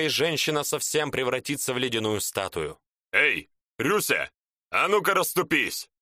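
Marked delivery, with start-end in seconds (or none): 3.1-5.9 barked order. Acted. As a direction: bellow at the dead soldiers to step back. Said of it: "гаркнул шаман".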